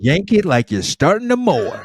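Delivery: real laugh on every word. Real, not acted. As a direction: blurt it while cracking up. Cracking up at the joke.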